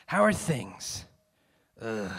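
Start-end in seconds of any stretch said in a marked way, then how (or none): 1.8-2.1 low, weary "ugh"; weary sigh. A narrator's reading. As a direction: sigh it out wearily. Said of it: "he sighed".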